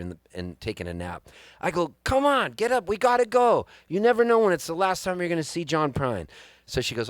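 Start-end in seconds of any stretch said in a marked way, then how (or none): 2.0-6.3 high insistent urging. Retold or imitated. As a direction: push her to get up. Urging wife out of bed.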